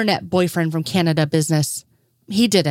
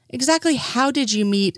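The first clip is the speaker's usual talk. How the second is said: careful; 7 semitones higher than usual. Acted. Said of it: "Lestrade said carefully".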